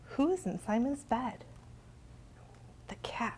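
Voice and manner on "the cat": soft unvoiced reveal; whisper. Storyteller whispers the answer to kids. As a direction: whisper it like a secret.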